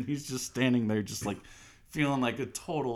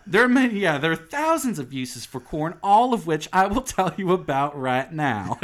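louder, higher guide spiel; fake tour guide; 3 semitones higher, 6 dB louder than usual. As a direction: launch into an endless list. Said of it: "fake-ass tour guide".

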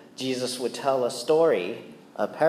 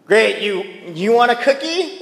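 higher, louder laughing sarcastic jab; wife's sarcasm; 6 semitones higher, 4 dB louder than usual. Retold or imitated. Wife Janice teasing husband over dishes, sarcastic with a laugh. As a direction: tease him with a laugh. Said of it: "Janice will be like".

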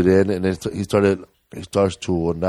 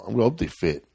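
resigned reply; 5 semitones lower, 9 dB quieter than usual. Acted. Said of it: "I'd be like".

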